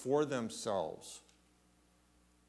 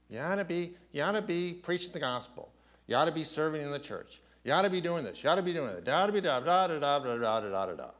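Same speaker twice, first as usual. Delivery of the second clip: a hint of a lecturing preacher, higher and quick; mock nagging preacher; 3 semitones higher, much faster than usual. Preacher mocking preachers who lecture the flock, lightly nagging. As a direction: rattle off the oughts like a nagging preacher. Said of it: "Preachers can stand up here and bang on your head".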